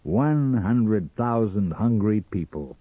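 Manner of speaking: slow, relishing delivery; savouring, drawn out. Acted. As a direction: linger over every word. Sam savours coming customers.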